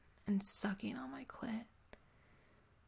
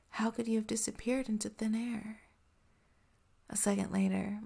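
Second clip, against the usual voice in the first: ASMR whisper. Acted. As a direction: breathe every word close to the mic.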